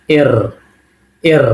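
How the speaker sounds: এর, with a rolled র; এর with trilled r; Russian er. Shown as a demonstration. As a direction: say এর like Russian Р, not পি. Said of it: "এটাকে বলবো".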